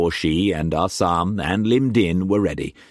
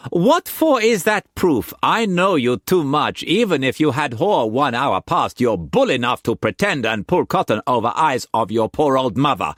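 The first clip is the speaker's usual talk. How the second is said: put-on high, loud playful young woman; Mei Mei's voice; 8 semitones higher, 3 dB louder than usual. A narrator's reading. Mistress teasing Struan in bed, high playful voice. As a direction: tease him in a high bright voice.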